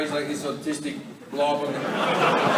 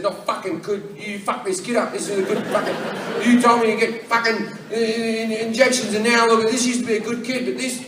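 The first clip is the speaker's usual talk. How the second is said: sputtering outrage, climbing higher and louder; acted tirade building to a loud finish; angry rant; 4 semitones higher, 4 dB louder than usual. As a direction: stumble through a furious accusation.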